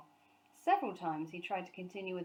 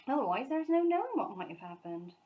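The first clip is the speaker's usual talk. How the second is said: higher relieved housekeeper; Mrs Bird's voice; 5 semitones higher, 4 dB louder than usual. A narrator's reading. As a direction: fuss with relief. Mrs Bird voiced in story.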